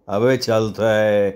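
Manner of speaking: slow, drawn-out tough-guy reply; offhand boss. Acted. Boss answers his friend offhandedly.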